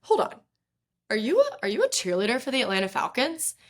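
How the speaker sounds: high, quick surprised asking; startled, pressing question. Retold or imitated. Stranger stopping her, asking in surprise.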